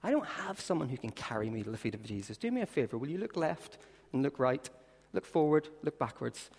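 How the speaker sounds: soft, reassuring appeal. Acted. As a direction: speak gently to the newcomer.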